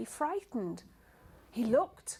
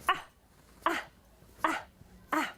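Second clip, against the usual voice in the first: ah sound; 3 semitones higher, faster than usual. Shown as a demonstration.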